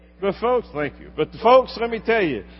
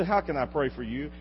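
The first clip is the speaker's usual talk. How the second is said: softer, sincere offer to pray; 6 dB quieter than usual. Shown as a demonstration. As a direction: ask it gently and sincerely. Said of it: "look at them sincerely and say".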